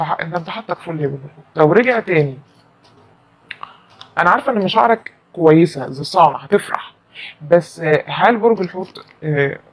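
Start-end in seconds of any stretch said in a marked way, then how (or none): 6.4-6.9 a soft whispered aside. Real, not acted. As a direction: lean in and whisper the good news. Whispered happy prediction.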